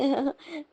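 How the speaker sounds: short laugh. Real, not acted. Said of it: "मुझे हंसी आ रही है".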